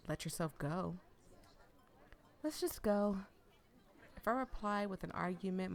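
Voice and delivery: lively read-aloud of a novel; story narration. A narrator's reading. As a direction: read the story to your viewers.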